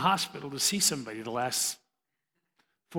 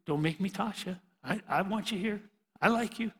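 calming referee; 3 semitones higher, 5 dB quieter than usual. Retold or imitated. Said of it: "I say".

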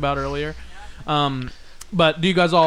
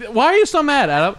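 laughing while teasing; 8 semitones higher, 5 dB louder than usual. Real, not acted. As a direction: giggle through the question. Teasing a mad friend, laughing.

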